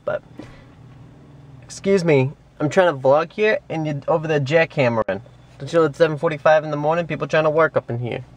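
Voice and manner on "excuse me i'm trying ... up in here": lightly put-on New York accent, annoyed; mock New York scolding at the jackhammer. Lightly put-on New York accent, annoyed at the jackhammering neighbour. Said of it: "I have no idea what accent that was".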